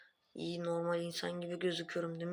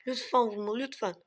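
pleading villager; 3 semitones higher than usual. Acted. Villager begs not to be hit.

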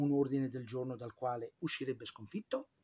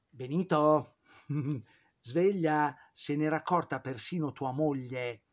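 louder, teasing shout to wake him; mock wake-up call; 2 semitones higher, 5 dB louder than usual. Narrator mockingly addresses Mussolini about his wife, mock wake-up call. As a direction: call out to him as to a dozy fool.

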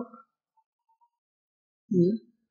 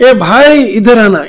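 raised, louder hail; imitated calling out; 2 semitones higher, 6 dB louder, slower than usual. Old woman calls to passing men from afar, imitated shout. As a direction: mimic an old woman calling someone over. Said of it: "ડોશીએ બૂમ પાડી".

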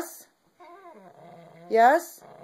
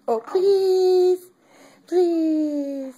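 squeaky praising a dog; 7 semitones higher, much slower than usual. Real, not acted. Coaxing the dog to say please.

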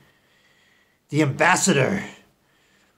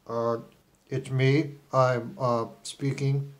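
put-on Israeli accent; 3 semitones lower, 5 dB quieter, slower than usual. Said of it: "I speaking with my Israeli accent".

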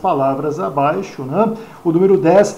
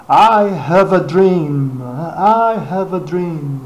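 slow, solemn quote of I have a dream; slow oratorical I have a dream; famous speech quote; much slower than usual. Retold or imitated. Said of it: "Já ouviu falar desse discurso".

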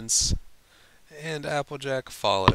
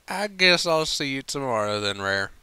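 cheeky country voice; 4 semitones higher, 5 dB louder than usual. Acted. Applejack's cheeky reply.

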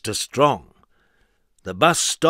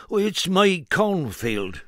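slow, higher anxious farmer; worried farmer; 6 semitones higher, slower than usual. Acted. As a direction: drag it out worriedly. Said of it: "replied the farmer".

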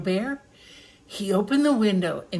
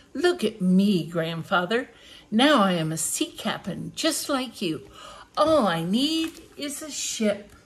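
little bear cub. Acted. Little Bear showing off to Grandfather, eager cub voice. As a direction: play the proud little cub. Reads Little Bear's lines.

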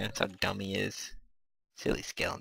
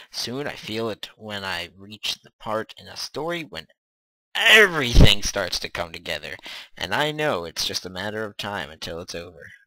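even, measured book narration; reading aloud. A narrator's reading. Gamer reading chapter one aloud, even narration. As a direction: read it out steadily as narration.

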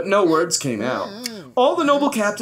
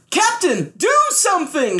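shouted; 12 semitones higher than usual. Acted. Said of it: "shouted Bartholomew".

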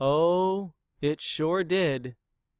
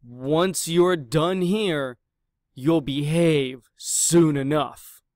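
gruff trainer; 5 dB louder than usual. Acted. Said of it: "Her manner was gruff".

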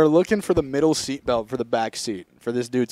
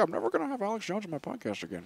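mock muttered Rogan; 7 semitones higher, 10 dB quieter, faster than usual. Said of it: "he was like".

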